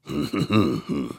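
low-key humming chuckle; doubtful chuckle. A narrator's reading. Mammoth court considers the children's proof, chuckling. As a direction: chuckle to yourself like a pondering judge.

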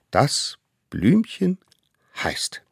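slow, then whispered name reveal; dramatic pause. Acted. Little hunter reveals the flower's name, slow then whispered. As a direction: build suspense and drop to a whisper.

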